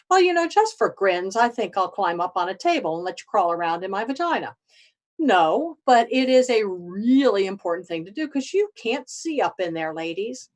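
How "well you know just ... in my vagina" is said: mock woman volunteering.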